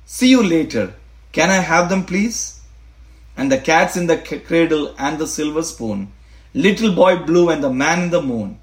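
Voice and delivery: poem reading. Acted. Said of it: "Let me read it to you slowly".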